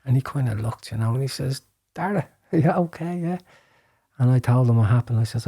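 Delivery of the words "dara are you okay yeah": lightly voiced priest, pitched higher; a hint of a worried priest checking in; mild caring question from the priest; concerned priest. Priest runs to check on him.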